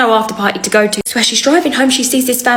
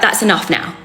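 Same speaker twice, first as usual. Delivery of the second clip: stern father. Retold or imitated. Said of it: "You can tell by the dad's tone".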